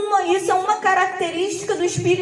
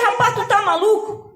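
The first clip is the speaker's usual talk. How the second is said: retold retort, pitched higher; incredulous retort; 4 semitones higher than usual. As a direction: challenge him in disbelief. Retelling her incredulous retort. (réplica incrédula, recontada)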